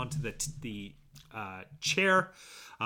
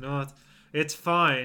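mock gritted-teeth speech, jaw clenched. Retelling a manager's reply about a broken sprinkler, through clenched teeth. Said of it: "he says through like lockjaw teeth".

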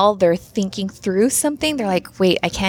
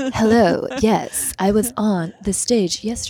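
put-on radio announcer voice. Replying to an interviewer's question, in a radio voice. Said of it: "radio voice?".

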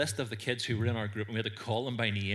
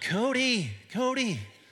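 terrible fake American accent, very high pitch; 13 semitones higher, 5 dB louder than usual. Retelling how the americans called out to cody: terrible american accent. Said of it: "terrible American accent".

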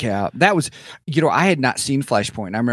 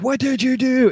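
mock yell with a much higher pitch. Quoting the line he yells in that moment, retelling a yell. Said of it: "And when he's yelling".

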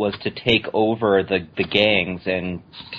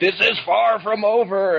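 very high, theatrical cartoon villain voice, menacing; 12 semitones higher than usual. Describing a comic book character you find funny, you act out his lines in a cartoon supervillain voice. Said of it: "He kind of talks like a supervillain".

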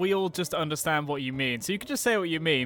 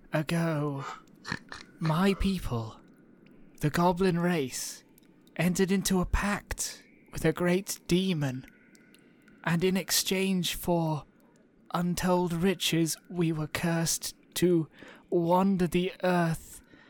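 creepy put-on cartoon voice. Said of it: "It's very salad fingers".

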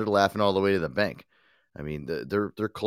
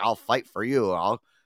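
put-on old man voice, pitched higher; 4 semitones higher than usual. Recalling an old commercial of a ninety-year-old mayor: Mayor DeFranzio impression. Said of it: "like, ninety years old, and he was like".

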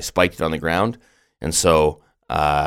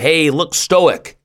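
put-on very high, shouted, called-out yell; 11 semitones higher, 4 dB louder than usual. Retelling what the wife yelled right before snapping a photo: imitating someone yelling. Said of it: "my wife yelled".

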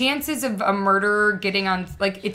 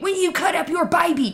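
play-acted, high-pitched screaming; 9 semitones higher than usual. Retelling a prosecutor shouting at a mother on the stand: imitating a screaming prosecutor.

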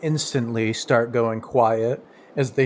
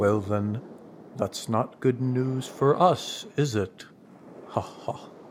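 put-on grave, hushed, solemn, breathy old-turtle voice; 6 dB quieter than usual. Voicing an old turtle reacting to news of a ship crash: solemn old turtle voice. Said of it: "kind of solemnly nods".

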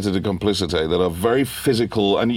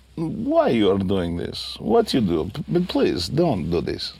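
Russian accent, deeply pained and pleading. Explaining how national feeling shapes an accent, pained Russian accent. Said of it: "put that into the accent".

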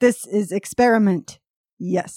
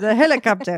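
put-on Italian accent, old woman voice. Repeating a word from a news reading, in an Italian grandmother accent. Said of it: "That's how my Italian grandmother would have said it".

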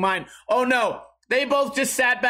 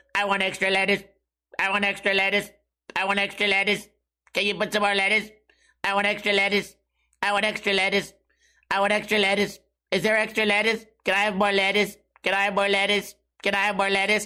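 put-on weird robotic teen voice, droning over and over. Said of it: "a weird robotic voice like this".

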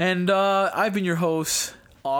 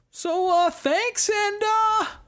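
sudden very high, slow, lilting pitch jump. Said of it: "why did my voice do that?".

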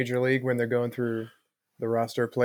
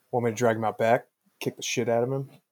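usual speaking voice

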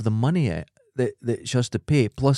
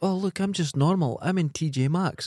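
slow, snide, mocking fake-humble celebrity voice; 4 semitones higher, 3 dB quieter than usual. Retelling a celebrity's shopping photos: mocking imitation of a celebrity. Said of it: "she was in it shopping going".

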